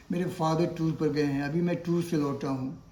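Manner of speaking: 'टूर' as one long-oo syllable with a sounded r; common mispronunciation. Shown as a demonstration. Teacher quotes everyday Hindi speakers, r-sounded mispronunciation. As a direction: say 'टूर' to rhyme with Hindi दूर. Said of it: "टूर जो है गलत pronunciation है".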